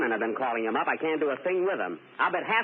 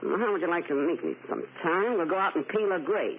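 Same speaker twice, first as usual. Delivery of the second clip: brassy floozy; 3 semitones higher than usual. Pretend. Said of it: "make believe it's Mae West".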